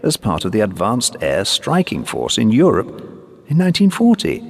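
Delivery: former pilot, earnest. Acted. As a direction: earnestly explain the plane's history to a sergeant.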